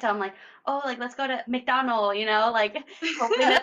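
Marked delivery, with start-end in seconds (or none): 0.6-2.2 put-on Asian accent. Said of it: "I will say it in an Asian accent".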